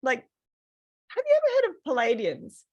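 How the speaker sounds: high, eager imitation of the masseur; masseur quoted. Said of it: "she's like".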